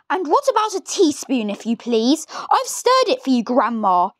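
a polite little boy, voiced lightly; young George. George asks Grandma.

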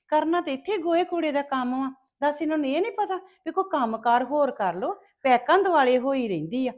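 gloating mockery. Jealous relative gloats loudly to herself over the girl's burnt face. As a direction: jeer at the girl with spiteful relish.

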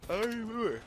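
high exasperated whine. Real, not acted. Fumbling to recall friend's name.

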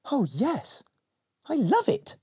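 put-on high, eager little girl voice; excited little girl. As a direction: squeal with delight. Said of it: "said Molly".

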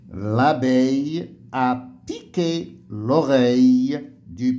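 reading aloud. Shown as a demonstration. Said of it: "je lis le texte".

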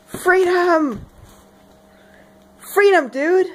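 high, loud American battle cry; hammed-up American accent; full American. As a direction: proclaim it like an over-patriotic American dude. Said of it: "Full freedom powers".

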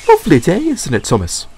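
glad to be back, bright and eager; Dexter voiced. A narrator's reading. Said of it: "asked Dexter".

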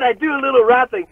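hammed-up dweeb. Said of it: "like a fucking dweeb".

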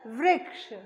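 वृक्ष said as vrik-sh, the ऋ as ri; teacher sounds out वृक्ष clearly; pronounced slowly. Shown as a demonstration. Teacher modelling the word for children, careful pronunciation. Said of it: "व में री की मात्रा क्ष".

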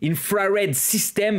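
slow English read with a heavy French accent; thick French accent. Real, not acted. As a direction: spell out the English name slowly in a strong French accent. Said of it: "avec mon accent, euh, à couper au couteau". (anglais lent avec un fort accent français)

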